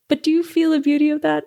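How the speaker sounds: tearful and moved. Real, not acted. Moved, near tears, after laughing.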